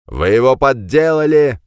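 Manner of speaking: loud, high furious yell; кричит на полицейских в ярости; yelled accusation. A narrator's reading. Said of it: "заорал Жиль". (громкий яростный крик)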